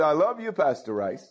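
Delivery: warm, lilting I love you, rising on love; modeling a loving greeting. Shown as a demonstration. Pastor leads congregation to say it, warm and sing-song. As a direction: show the church how to say it tenderly. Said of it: "Now, y'all say".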